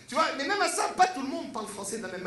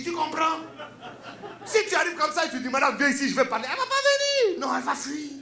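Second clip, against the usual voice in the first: put-on West African accent; 3 semitones higher than usual. Friend Boubacar coaching Niv on seducing women, West African accent. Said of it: "il m'a dit comme ça".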